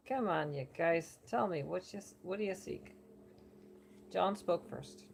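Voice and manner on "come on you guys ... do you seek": a lightly done, bad New York accent; half-hearted New Yorker oracle; a hint of a New York accent. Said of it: "I'm just going to do it in a New Yorker accent, like, a really bad one".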